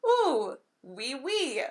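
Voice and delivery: mock a Hallmark actress's cheesy French accent; bad French accent. Mocking a Hallmark movie's bad French accent, hammed up. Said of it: "supposed to be a French accent".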